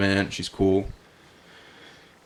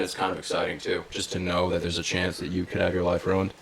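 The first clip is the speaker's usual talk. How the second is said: dry, understated sarcasm; sarcastic; 6 dB quieter than usual. Real, not acted. Customer joking to his friend about risky haircuts, softly sarcastic. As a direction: say it softly, in mock appreciation. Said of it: "Yeah, I'm just being sarcastic".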